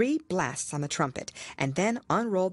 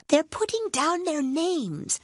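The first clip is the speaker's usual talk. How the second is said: high, slow creature voice for the Gryphon; a hushed Gryphon, slow and high; Gryphon's whisper; 12 semitones higher, 3 dB louder, slower than usual. A narrator's reading. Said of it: "the Gryphon whispered in reply".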